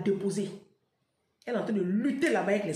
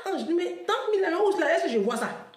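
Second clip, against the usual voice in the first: friend's excuse; 5 semitones higher than usual. Retold or imitated. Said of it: "Elle dit".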